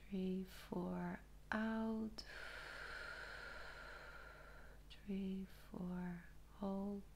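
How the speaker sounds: soft, slow breathing count; guided breathing. Shown as a demonstration. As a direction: count the breaths gently and softly. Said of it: "I'm just gonna ring the bell".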